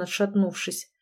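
ordinary delivery, nothing marked

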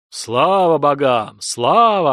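slow, swelling shout of glory; crowd's answering cry. Acted. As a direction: call it back to the gods like villagers. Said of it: "отозвались селяне".

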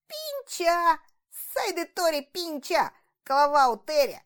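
loud, high joyful yell. A narrator's reading. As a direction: yell the names out happily. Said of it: "радостно вопил". (радостный громкий вопль)

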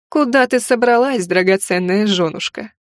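lightly voiced sneering husband; a touch of cruel mockery; mocking dark lord. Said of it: "Насмешливый голос".

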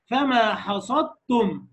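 فما حصدتم drawn out, dal merged into تم; very slow recitation. Shown as a demonstration. Teacher demonstrating merger to class, very slow. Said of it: "مفيش دال".

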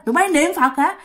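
high, jeering demon voice mocking the praying women; taunting ghost. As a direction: sneer it down like a spirit on the roof. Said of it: "mà nói rằng á".

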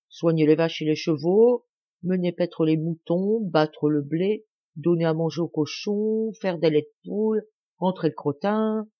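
a hint of a country boy reciting chores; farm boy. Boy answering the mayor, lightly voiced country lad.

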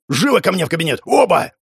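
sharp order, rising to a high shout; an angry boss snaps at the brawlers; barked command. A narrator's reading. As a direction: order them both into the office. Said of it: "скомандовал".

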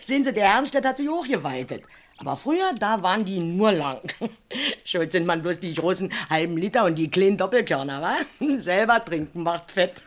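chuckling through the gossip; amused, giggly storytelling; laughing while talking. Acted. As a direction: laugh as you tell it.

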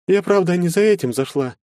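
put-on a young woman explains herself, flustered; embarrassed girl. A narrator's reading. Anfisa to Maxim after the night, mildly embarrassed. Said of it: "сконфуженно произнесла Анфиса".

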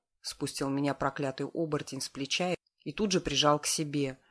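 ordinary delivery

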